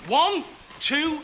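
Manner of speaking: put-on lively children's entertainer; jolly them along, then count them in; talking to small children. Talks to group of children.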